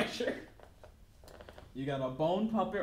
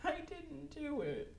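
high, slow, giggly denial; laughing whine; 12 semitones higher, much slower than usual. Acted. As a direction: plead through laughter.

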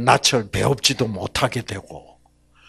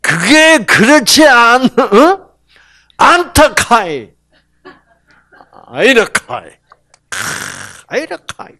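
much higher, louder Gyeongsang shout; Gyeongsang dialect God; 9 semitones higher, 9 dB louder than usual. Acted. Preacher voicing God to Cain, loud Gyeongsang accent. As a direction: blast 아이라, 카이 in Gyeongsang style. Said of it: "이때는 하나님이 경상도식으로".

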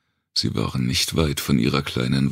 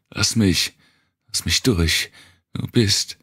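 higher, sharp demand to be let through; angry child; 6 semitones higher than usual. Acted. Girl snaps at Wanda to let her pass. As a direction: push past her with raised voice. Mariam pushing past Wanda.

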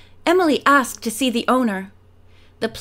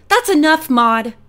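louder, sharp scolding; firm rebuke; 4 semitones higher, 5 dB louder than usual. Acted. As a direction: shut her down firmly. Emily silencing rude Maud.

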